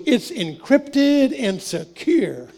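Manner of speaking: a hint of a smug know-it-all; proud guy. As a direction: show off like he's proud of himself.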